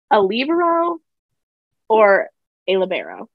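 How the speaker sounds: "libero" first as LEE-buh-ro, then as luh-BEAR-o; two rival pronunciations. Shown as a demonstration. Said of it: "they like to place emphasis on the first syllable".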